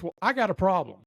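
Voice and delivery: a touch of a customer's ire; mad drill sergeant. Retold or imitated. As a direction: mildly imitate an angry Marine. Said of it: "he was mad".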